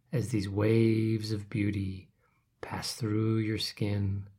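slow breathy hush. Acted. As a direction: whisper it like a lullaby. Meditation imagery of beauty.

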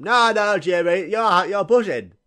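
loud, high mock mum voice; insistent mum. Mum insisting son opens the present, loud. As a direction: brush his offer aside, pushing him on.

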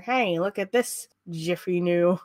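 lightly put-on mid-Atlantic fifties accent; a hint of an old transatlantic newspaper voice. Newspaper reporting the college boys' stunt, fifties transatlantic accent. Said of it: "That's my best fifties accent".

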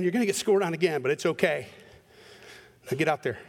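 father tenderly reassuring his son on the field; gentle father. Retold or imitated. Father comforts crying son.

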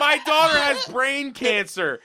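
mock-flat dad line through laughter; laughing deadpan announcement. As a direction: blurt it out while laughing.

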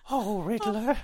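high hammed-up posh Pooh voice; high, plummy, silly mock hero; mock Batman. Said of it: "he's gonna be like".

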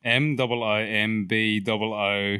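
slow, letter-by-letter spelling. Shown as a demonstration. Contestant reading a town name out for the hosts, spelled slowly. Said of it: "letter for letter".

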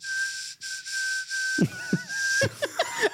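high whistle with open mouth; whistling. Real, not acted. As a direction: whistle through smiling teeth. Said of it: "Are you whistling with your mouth open?".

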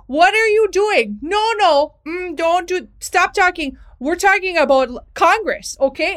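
loud, high Minnesota teacher scolding; hammed-up Minnesota accent, exasperated and projected; full-scale Minnesota accent. Shown as a demonstration. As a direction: scold the class in broad Minnesota. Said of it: "in my full-scale Minnesota accent".

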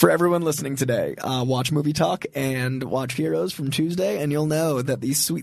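hoarse gravelly voice from a cold; rough, sick, gravelly voice. Real, not acted. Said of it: "these sweet, sweet, dulcet tones".

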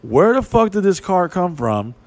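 high, loud incredulous question; baffled. Retold or imitated. Guys asking each other about the car, high and stunned. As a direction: disbelief at the car appearing. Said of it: "We're like".

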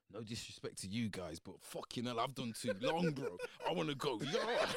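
exasperated plea. Retold or imitated. Retold plea to lifers.

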